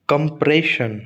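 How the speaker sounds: कंप्रेशन with a long, weighted प्रे; stress on प्रे. Shown as a demonstration. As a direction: lean on PRAY in कंप्रेशन. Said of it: "प्रे पर आएगा शन". (कंप्रेशन के प्रे पर ज़ोर)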